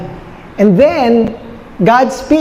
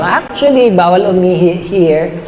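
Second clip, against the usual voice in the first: a hint of posh Taglish on the sign; lightly voiced socialite; 3 semitones lower than usual. Preacher reads out a fancy fence owner's sign, lightly voiced socialite. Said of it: "Social yung may-ari ng bakod eh".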